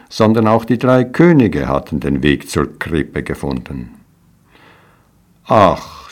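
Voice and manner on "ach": sigh. Acted. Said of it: "seufzte Maria".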